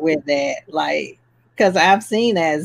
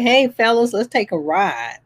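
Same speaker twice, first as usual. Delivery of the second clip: De Niro tough guy; 5 semitones higher than usual. Retold or imitated. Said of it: "It's my Robert De Niro impression".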